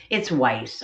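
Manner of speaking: Weiss rhyming with ice; settling on pronunciation. Shown as a demonstration. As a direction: land on Weiss as "wice", falling tone. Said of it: "am I saying it wrong".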